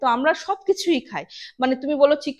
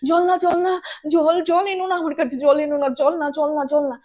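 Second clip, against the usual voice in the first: retold fear; 3 semitones higher, 4 dB louder than usual. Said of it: "জল দেখে ভয় পাচ্ছে".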